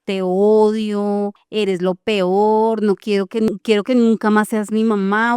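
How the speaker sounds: slow, deliberate mock of a furious little child; hurtful child. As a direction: spell out the child's cruel words slowly. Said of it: "el niño le gritaba cosas horribles".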